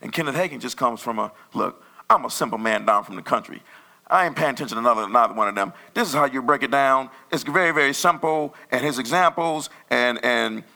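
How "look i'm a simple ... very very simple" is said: lightly voiced plain-spoken country man; a hint of a down-home preacher laying it out; lightly imitated country preacher; simple country preacher. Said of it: "he talks like that too".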